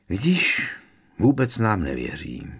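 a touch of self-pity; rueful complaint. Acted. Ron complaining to Harry about mistrust, mildly rueful. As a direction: complain mildly, feeling sorry for yourself. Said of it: "postěžoval si Ron lítostivě".

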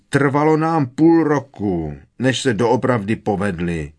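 Fred roars at his mother; angry roar. A narrator's reading. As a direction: yell it back at your mother. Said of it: "zařval na ní Fred".

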